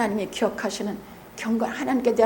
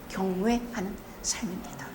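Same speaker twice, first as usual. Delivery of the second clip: soft conclusion; 4 semitones lower, 12 dB quieter than usual. Real, not acted. Softly concluding point.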